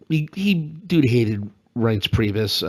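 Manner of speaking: put-on slow, lightly boyish schoolboy voice; a hint of a schoolboy telling tales. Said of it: "use my schoolboy voice".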